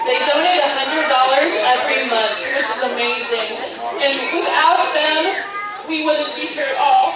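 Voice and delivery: grateful, fighting back tears; still tearful. Real, not acted. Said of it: "I don't know why I'm crying".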